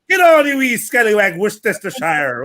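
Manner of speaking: a light mock Irish lilt on "get on you wee scallywag"; Irish accent. Friend teasing the mate's Irish-sounding accent. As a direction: tease like a cheeky Irish grandad. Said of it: "turned Irish".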